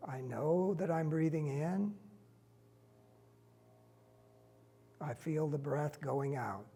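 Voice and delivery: slow, unhurried meditation leader with long pauses; guided meditation. Real, not acted. Teacher leading a standing group through breathing, calm guided meditation.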